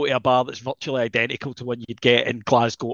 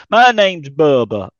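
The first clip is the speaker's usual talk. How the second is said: slow, loud imitation of a trucker's introduction; lightly voiced trucker, loud and drawn out; truck driver; 6 dB louder, slower than usual. Storyteller quoting the truck driver he met, slow loud trucker voice. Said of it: "and then he goes".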